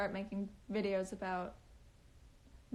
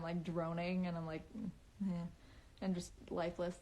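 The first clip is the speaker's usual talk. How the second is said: lifeless droning; 4 semitones lower, 7 dB quieter than usual. Shown as a demonstration. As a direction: lower and softer, a lifeless drone. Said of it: "normally I talk like I'm".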